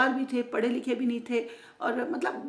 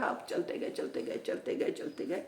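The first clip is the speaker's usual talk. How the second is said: fading whisper; 6 dB quieter than usual. A narrator's reading. Storyteller trailing walking repetition.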